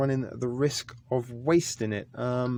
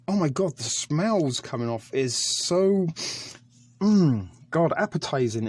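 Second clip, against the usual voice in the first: excited; 4 semitones higher, 3 dB louder than usual. Real, not acted. Savoring the smell of food.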